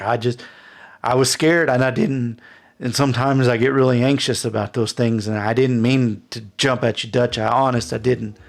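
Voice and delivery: flustered, stumbling excuse; anxious apology. Acted. Frightened man apologizing in story.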